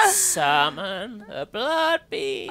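high, loud, slow proclamation; theatrical mock incantation; hammed-up summoning. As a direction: call it out grandly, stretching the words. Mock-summoning the blood beast.

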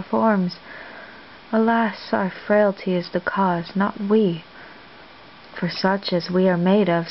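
lightly acted Viola, puzzling it out aloud; measured dramatic recitation with pauses between thoughts; Shakespeare monologue. Viola reflecting on her encounter with Olivia, understated puzzled recitation.

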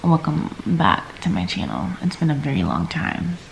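groggy morning voice; barely awake, first words of the day; just woke up. Real, not acted. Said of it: "if my voice sounds weird, it's 'cause I just woke up".

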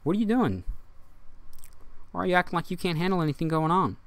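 high-pitched acted scolding question; mock reproach. Friends confronting someone who can't cope, reproachful. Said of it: "They're looking at you like".

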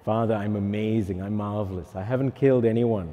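mock self-satisfied, slightly hushed; lightly acted smugness in the confessional; understated self-praise to the priest; boastful penitent. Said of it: "tell the priest how fantastic you are".

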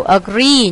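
"Agree" stressed on GREE; second-syllable stress. Shown as a demonstration. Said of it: "nhấn âm hai". ("Agree" nhấn âm hai)

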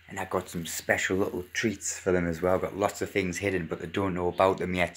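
hushed late-night vlog voice; nervous night vlog whisper. Real, not acted. 3 AM, kids still asleep.

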